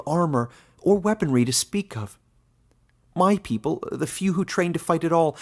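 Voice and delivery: hurt and loud, demanding back a lost life; Caleb, young man pleading. A narrator's reading. Caleb protesting to Glista.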